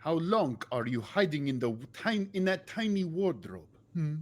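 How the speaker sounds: a hint of Swedish accent, teasing; lightly put-on Swedish sailor mocking. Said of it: "I'm still doing Swedish".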